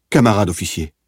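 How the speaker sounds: a prisoner begging the officer in alarm; pleading cry. A narrator's reading. Prisoner begs the officer, a pleading cry. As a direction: call out to the officer in sudden fear. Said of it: "cria-t-il".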